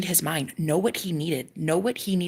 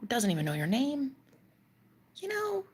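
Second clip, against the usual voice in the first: whisper; 7 semitones higher, 5 dB quieter than usual. Real, not acted. Confiding the fear.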